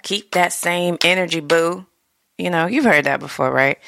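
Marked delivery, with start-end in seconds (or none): 0.0-1.9 sassy catchphrase. Retold or imitated. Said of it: "they do with the clap".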